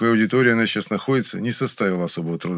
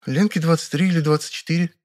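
puzzled; 9 semitones higher than usual. A narrator's reading. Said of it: "озадаченно пробормотала Вера".

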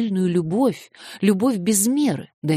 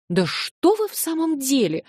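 plaintive; 9 semitones higher than usual. A narrator's reading. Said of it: "жалобным голосом".

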